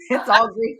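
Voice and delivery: loud, drawn-out laughing delivery; laughing hard through the words. Real, not acted. Joking along amid shared laughter.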